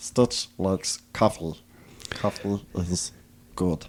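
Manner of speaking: breathy, airy, hushed whispered voice. Showing another speaker a Stitch impression: Stitch voice. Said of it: "I've just got, like, Stitch".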